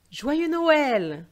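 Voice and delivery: loud, high, beaming Father Christmas cheer; jolly greeting. Acted. Santa cheerfully wishing the little girl Merry Christmas, loud and high.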